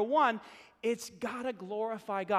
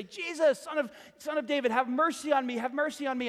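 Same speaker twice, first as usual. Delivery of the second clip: raised plea, crying out for mercy; calling out; 4 semitones higher than usual. Retold or imitated. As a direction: call to Jesus as he passes by. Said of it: "call out to Jesus and say".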